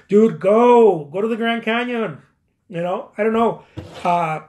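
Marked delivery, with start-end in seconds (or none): 0.1-2.2 emphatic urging. Acted. Urges the excuse-maker to go.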